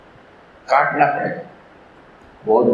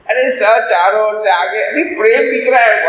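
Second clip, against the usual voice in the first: vendor calling out; 7 semitones higher than usual. Retold or imitated. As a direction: call out to passers-by.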